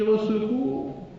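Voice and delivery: high, slow squeaky cry for help; a tiny mouse calling out in panic. A narrator's reading. The mouse shouts to anyone near, high and slow. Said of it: "et la souris crie".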